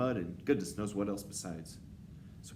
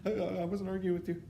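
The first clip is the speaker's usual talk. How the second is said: high, stammering denial; quavering underling witch; shaking with fear; 12 semitones higher, 4 dB louder, faster than usual. A narrator's reading. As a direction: stutter it out in terror. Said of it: "She began to shake with fear".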